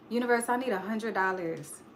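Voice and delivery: soft, small request; a soft, unsure plea; timid ask. Shown as a demonstration. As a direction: ask the universe meekly. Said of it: "Do y'all think that's enough?".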